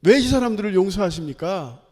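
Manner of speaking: imitated angry challenge, loud. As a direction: protest indignantly, hitting the question hard from the start. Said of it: "막 화를 내요". (화내며 크게 따져 묻기)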